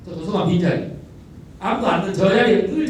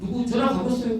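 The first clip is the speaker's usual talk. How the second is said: casual question; 5 semitones higher than usual. Retold or imitated. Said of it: "교부장이".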